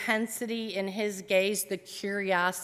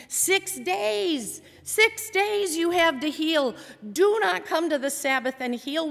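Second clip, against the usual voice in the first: higher, louder indignant outburst; angry scolding; 5 semitones higher, 3 dB louder than usual. Retold or imitated. Synagogue leader berating Jesus for healing, angry and high. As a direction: scold like an outraged rule-keeper. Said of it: "he's gesturing angrily at Jesus".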